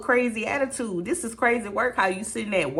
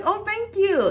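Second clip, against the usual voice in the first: flattered thanks; 4 dB louder, slower than usual. Retold or imitated. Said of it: "I was like".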